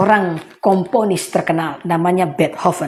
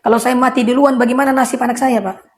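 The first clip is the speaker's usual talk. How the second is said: mild tearful plea; 3 semitones higher than usual. Retold or imitated. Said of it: "Polisi tanya sambil nangis".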